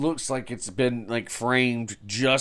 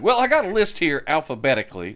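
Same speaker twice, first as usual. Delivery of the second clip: quoting Eddie; 5 semitones higher, 5 dB louder than usual. Retold or imitated. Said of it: "he's like".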